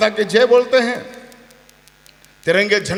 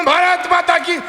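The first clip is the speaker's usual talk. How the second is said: mock reluctant MP; 8 semitones higher than usual. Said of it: "वो बोला".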